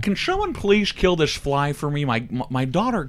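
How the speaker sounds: lightly voiced celebrity impression, starting high; a touch of put-on celebrity voice; Caitlyn Jenner. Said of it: "That's a great Caitlyn Jenner".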